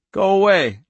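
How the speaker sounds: thin, high, loud warning. A narrator's reading. Girl warns off the arriving men, thin and high. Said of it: "Her voice was thin and high".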